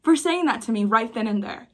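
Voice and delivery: high, bright and overly thankful, mocking; mock gratitude. Mocking racists who would never thank her, in a high gushing voice. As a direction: gush fake thanks as a parody of a racist. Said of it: "Nobody's ever gonna be like".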